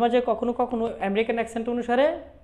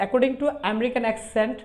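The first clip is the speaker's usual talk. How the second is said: slow, drawn-out American accent, t softened; 5 dB quieter, much slower than usual. Shown as a demonstration. Teacher models the phrase for learners, American accent. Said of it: "American অ্যাকস".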